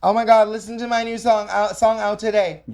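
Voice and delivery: loud, high hyped-up self-promo; spammy promo voice. Pretend. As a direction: shout it like a desperate spammer. Mocking spammy song promo.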